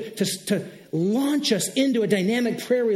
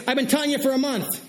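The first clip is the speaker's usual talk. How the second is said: lightly hammed-up, higher-pitched exasperation; God's reply; 5 semitones higher than usual. Pastor voicing God's answer to a doubter, mock exasperation. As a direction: play God mildly fed up, for a laugh. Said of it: "He'll say something like this".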